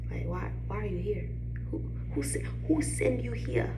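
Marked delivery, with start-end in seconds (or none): 1.7-3.7 sassy whispered challenge. Real, not acted. Challenging an unworthy man, sassy whisper. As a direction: call them out under your breath.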